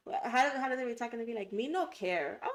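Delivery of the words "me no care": playful put-on Jamaican accent; mock Jamaican accent. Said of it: "like, a Jamaican accent".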